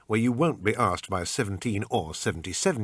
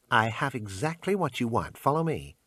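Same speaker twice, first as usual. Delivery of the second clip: pawn shop salesman; 3 semitones higher than usual. Acted. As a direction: sell it like a pushy clerk. Shopkeeper haggling.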